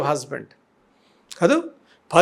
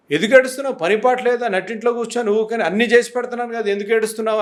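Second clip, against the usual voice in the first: mock nagging of a crying wife; imitated scolding husband; faster than usual. Preacher mimics husbands berating a crying wife, mock scolding. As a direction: scold her in mild impatience. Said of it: "అని అంటారు".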